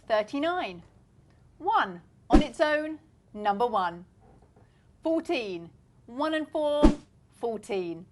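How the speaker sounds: sing-song bingo calling, rising on the middle; bingo caller. Acted. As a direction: call the numbers like a bingo hall.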